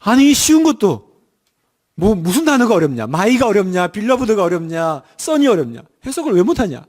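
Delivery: mock annoyed dad; irritated father. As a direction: vent a parent's mild frustration. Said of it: "제가 화, 화가 나 있는데".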